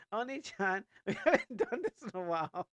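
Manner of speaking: sweet, eager anime little sister; bright kid-sister read of the line; cute anime little sister. Acted. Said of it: "second take in character voice".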